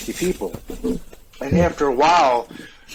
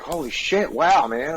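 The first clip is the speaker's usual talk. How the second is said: retold surprise; 5 semitones higher, slower than usual. Surprise at old Marine friend.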